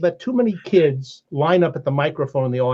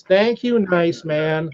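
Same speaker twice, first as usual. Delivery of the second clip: audience in chorus; 2 semitones higher, much slower than usual. Retold or imitated. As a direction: chant it like a hall of kids. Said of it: "the whole audience goes".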